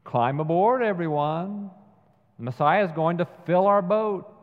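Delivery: dry sarcasm aimed at his brother; sarcastic. Retold or imitated. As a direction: sneer it like a tired fisherman. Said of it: "Simon replies with scar-, sarcasm".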